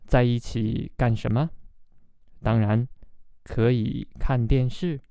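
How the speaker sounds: learner diary reading. Shown as a demonstration. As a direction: read it phrase by phrase with long pauses. Reads diary aloud for learners.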